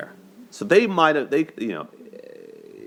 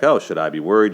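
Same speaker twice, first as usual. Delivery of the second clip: louder, rising mock worry on oh; playing the worried fiancé, a touch louder; imitating Lon; 5 dB louder, faster than usual. Fiancé asking Allie if he should worry, mock worried. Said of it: "he's like".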